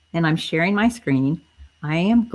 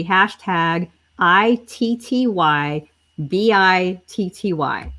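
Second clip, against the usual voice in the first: careful spelling; slower than usual. Shown as a demonstration. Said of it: "I'm gonna say that again".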